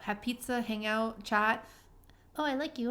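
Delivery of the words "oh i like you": higher-pitched mock sweet talk; gushing date imitation. Voicing date's gushing words.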